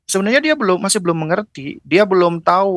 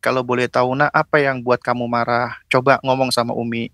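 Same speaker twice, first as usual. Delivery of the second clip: low, calm, coaxing question; kind asking; 3 semitones lower than usual. Acted. Mother asking why her child is angry, kindly. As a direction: invite an answer gently, pitch kept low. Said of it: "baru tanya baik-baik".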